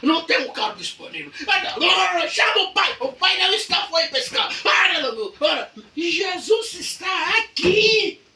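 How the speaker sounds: high, loud frantic calls; panicked complaining. Acted. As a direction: rush from one idea to the next in panic. Acted panicked complaint in trouble. (queixa em pânico, gritada e aguda)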